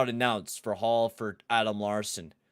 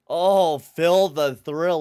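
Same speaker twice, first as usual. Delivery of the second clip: high, loud and slow like a commentator; hype call; 7 semitones higher, 10 dB louder, much slower than usual. Real, not acted. Streamer hyping his player in replay, crowing call. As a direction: draw the name out, crowing.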